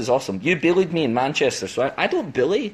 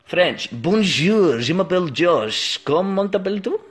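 French accent. Shown as a demonstration. Introducing himself to viewers in put-on French. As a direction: attempt French, sounding much like the mock Russian. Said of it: "didn't change there from Russian to French".

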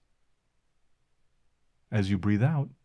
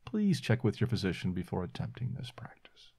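whispering; 3 semitones lower, 5 dB quieter than usual. Acted. Caution aside, unvoiced.

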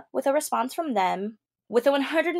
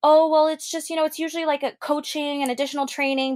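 flustered agent; 4 semitones higher than usual. Retold or imitated. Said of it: "I was like".

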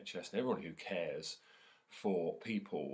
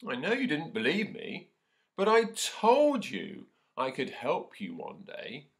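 higher, louder proud little mouse; squeaky mouse; 8 semitones higher, 9 dB louder, slower than usual. Acted. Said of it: "squeaked the mouse".

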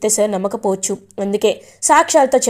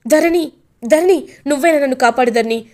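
begging; 3 semitones higher than usual. Acted. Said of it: "బ్రతిమలాడుతూ ఉంటాడు శైలేంద్ర".

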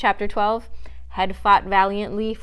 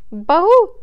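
one loud, high bleat; deer bleating; 10 semitones higher, 11 dB louder than usual. A narrator's reading. Faline unable to calm down, loud bleat. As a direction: let out a frightened deer's bleat. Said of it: "She bleated again".

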